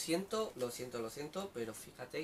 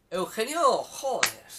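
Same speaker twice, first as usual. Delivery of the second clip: surprised; 6 semitones higher, 10 dB louder, slower than usual. Real, not acted. Sorpresa al ver a un conocido.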